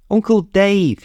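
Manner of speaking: high, bright call across the arrivals hall. A narrator's reading. Niece spotting her uncle at the airport, calling out. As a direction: call his name to get his attention.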